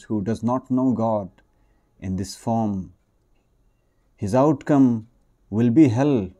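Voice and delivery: story reading. Acted. Preacher warns those who deny God's form, emphatic read-aloud. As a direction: read the preacher's words out firmly. Reads the preacher's quoted warning.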